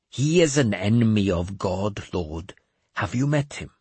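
a cracked holy man delivering God's message; mad bishop voice. Acted. Jeremias asks about Skoll.

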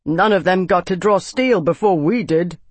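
lightly voiced young soldier joining in; young man. A narrator's reading. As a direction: pitch it up like a keen young man. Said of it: "that of a young man".

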